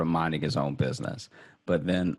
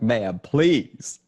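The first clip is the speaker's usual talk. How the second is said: whiny plea; 5 semitones higher, 4 dB louder than usual. Retold or imitated. Begging the bank agent.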